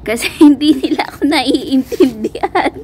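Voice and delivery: put-on sob through the words; mock crying. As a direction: playfully whine it as if crying. Laughs, then acts out feeling misunderstood.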